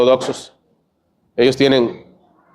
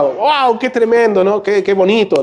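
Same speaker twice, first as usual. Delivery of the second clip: higher, thrilled Hollywood husband; mock delight; 5 semitones higher, slower than usual. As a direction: gush like a movie dad. Hombre de película se alegra. (entusiasmo de película)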